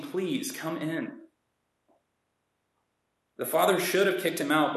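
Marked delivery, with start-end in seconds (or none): 0.0-1.2 pleading. Retold or imitated. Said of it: "pleading with him".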